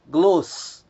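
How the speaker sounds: "gloss" clipped out on its own; stressed syllable shown. Shown as a demonstration. Teacher cutting off the stressed syllable for students. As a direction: isolate "gloss" as the strong syllable. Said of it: "a primeira sílaba".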